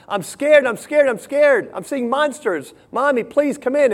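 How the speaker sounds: put-on high, pleading child's voice; a little girl calling out to her mother in fear; scared little girl. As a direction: play the frightened child begging mommy.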